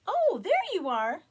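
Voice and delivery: high, loud excited bird cry; bird exclaiming. Acted. Bird excitedly greets the lost chicken. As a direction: call out in delight at finding him. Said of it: "it exclaimed".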